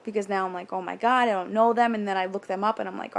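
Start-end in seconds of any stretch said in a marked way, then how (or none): 0.7-1.9 louder, mock-panicked worry; imitated fretting, pushed in volume; retold panic. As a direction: blurt it out like an anxious thought. Retold worry about unknown restaurant.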